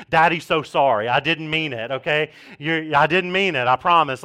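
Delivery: a father hushing his little one with sorry; comforting a toddler. Retold or imitated. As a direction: soothe a crying three-year-old. Dad comforting a three-year-old.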